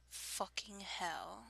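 soft, slow fake British with a Liverpudlian tinge; Liverpudlian-tinged British. Shown as a demonstration. Accent challenge attempt, a little Liverpudlian. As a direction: slip slightly into a Liverpudlian accent. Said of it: "That kinda sounded a little, little, little Liverpudlian".

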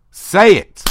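furious shouted demand. Acted. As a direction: yell the demand. Demands partner say it.

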